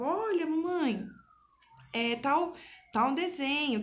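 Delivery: 1 lightly voiced child. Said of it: "ele falava".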